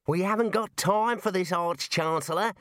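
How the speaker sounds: high-pitched small wizard, impatient. Acted. A small wizard objects to the Arch-Chancellor, impatient. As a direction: complain to the boss in a high voice.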